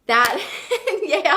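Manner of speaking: laughing through the words. Real, not acted. Host laughing at the size of her own dream. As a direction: giggle at how big it sounds.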